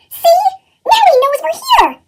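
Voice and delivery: a fed-up teacher sighing at his class; exasperated monster sigh. A narrator's reading. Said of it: "the voice sighed".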